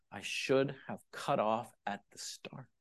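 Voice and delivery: soft regretful whisper. Acted. Preacher to the congregation, regretful whisper.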